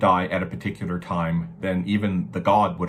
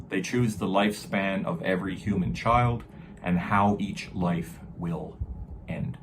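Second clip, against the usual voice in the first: grave ancient myth telling. Shown as a demonstration. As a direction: intone the verse like a skald. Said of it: "So it says".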